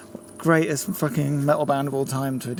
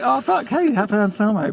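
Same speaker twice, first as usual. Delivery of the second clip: excited fanboy; 4 semitones higher than usual. Retold or imitated. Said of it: "I thought I was just like".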